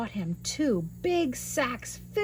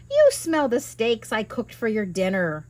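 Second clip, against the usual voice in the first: giant's wife; 4 dB louder than usual. Acted. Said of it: "his wife said".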